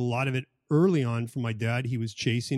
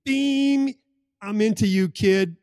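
beaming father; 5 semitones higher, 5 dB louder than usual. Retold or imitated. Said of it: "It's like transmitting".

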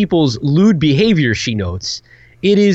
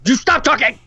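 high playful snap to stop talking; mock scolding; 9 semitones higher than usual. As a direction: shush your co-host, half joking. Cuts off co-host, mock scolding.

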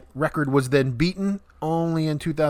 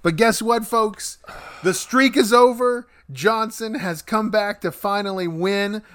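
excited announcer; 6 semitones higher than usual. Acted. Host announces the new winner.

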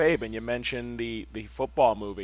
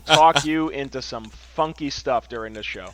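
boastful; 3 semitones higher, 8 dB louder than usual. Real, not acted. Boasting to cohost.

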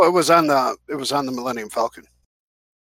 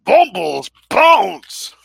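slow shouted catchphrase; 8 semitones higher, 7 dB louder, much slower than usual. Retold or imitated. Quoting creature catchphrase.

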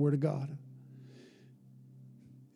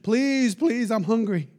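pleading beggar's plea; begging; 3 semitones higher, slower than usual. Retold or imitated. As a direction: beg like a blind man by the road. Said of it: "put his hand out and say".

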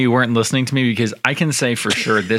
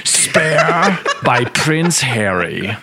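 laughing; much slower than usual. Real, not acted. Jokes about the wrong book.

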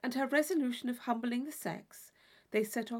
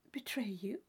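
whisper; 6 dB quieter than usual. Acted. Catherine puzzled by Isabella.

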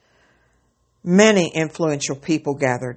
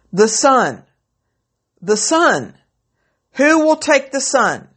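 auctioneer; 8 semitones higher, 4 dB louder, slower than usual. Acted. Auctioneer pleading for a bid.

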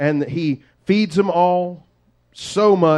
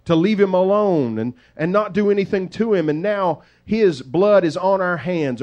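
Reuben scolding; 4 semitones higher than usual. Acted. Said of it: "Reuben... speaks up and says".

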